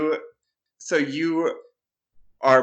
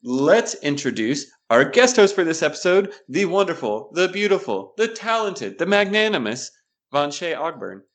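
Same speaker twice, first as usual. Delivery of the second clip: hyped introduction; 4 semitones higher, 3 dB louder than usual. Acted. Grand guest introduction.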